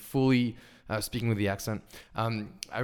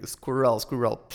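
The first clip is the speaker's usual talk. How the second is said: put-on French accent. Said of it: "I used to say in French".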